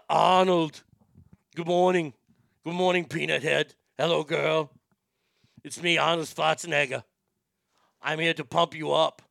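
lightly voiced Austrian action star; Arnold Schwarzenegger. Shown as a demonstration. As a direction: do an Austrian-accented muscleman impression. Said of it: "Can you please do Arnold?".

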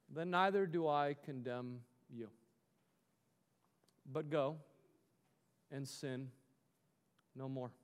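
low, hushed words with long pauses; gentle pardon. A narrator's reading. Jesus to the condemned woman, gently and quietly. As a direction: let each phrase sink softly into silence.

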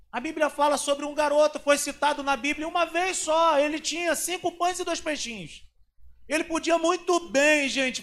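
loud, high, driving sermon voice; the preacher thunders the Bible story, high and loud; full-force preaching. Acted. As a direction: preach it out to the whole church.

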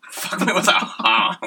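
put-on bubbly sorority girl. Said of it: "Beverly Hills girl mixed with Duck Dynasty".

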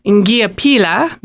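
Ngiyaphila spoken slowly, syllable by syllable; Zulu reply. Shown as a demonstration. Teacher slowly modelling Ngiyaphila for radio listeners. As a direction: spell out Ngiyaphila slowly for learners. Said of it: "then you would say".

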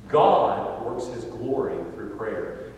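slow, measured and settled; calm restatement. Shown as a demonstration. Preacher summing up the story for listeners, calm and slow. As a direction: let the point land gently. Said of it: "returns to the point".

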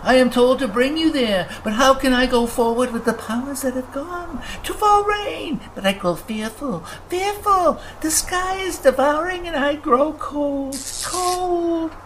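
very high, trembling-up lament; little sprite shivering in dread; fearful creature. Acted. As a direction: fear spiraling into a shrill wail.

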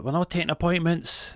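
high-pitched receptionist voice; dismissive receptionist. Retold or imitated. Receptionist Rhonda answers the buzzer, dismissive. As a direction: turn him away in a high put-on voice.

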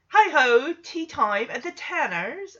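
badly faked Cockney butler accent; English butler Cockney. Recapper imitates uncle playing butler, shaky Cockney accent. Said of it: "an English butler Cockney accent".

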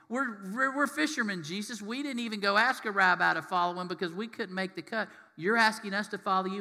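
mildly protest, as if unworthy of being asked; acted astonishment with a stammered start; incredulous fishermen.

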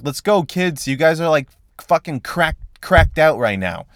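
lightly voiced fed-up father herding kids; impatient dad. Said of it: "that was shitty delivery on my part".

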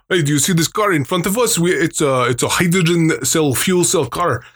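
put-on Armenian accent. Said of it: "he talked like this".

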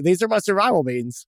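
guard the beans in jest; mock serious. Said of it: "I'm like".

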